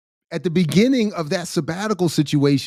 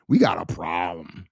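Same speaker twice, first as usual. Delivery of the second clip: very low, whispery threat; menacing warning; 8 semitones lower than usual. Acted. Father warning anyone who talks to his child, menacing.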